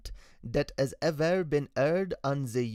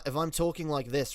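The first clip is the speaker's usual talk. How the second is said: demonstrating a British accent. Shown as a demonstration. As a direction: talk in a put-on British accent. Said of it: "I'm British".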